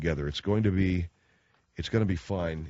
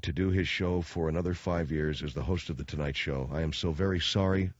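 hammy stage actor. Acted. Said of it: "Excuse the theatrics".

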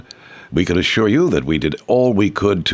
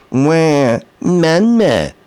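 put-on baby crying wail; 7 semitones higher, much slower than usual. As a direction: wail it like a bawling infant. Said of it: "seems to be the right tonality".

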